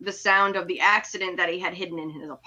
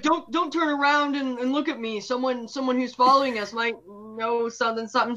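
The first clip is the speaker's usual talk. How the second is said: mock warning whisper; 3 semitones higher than usual. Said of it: "everybody's like".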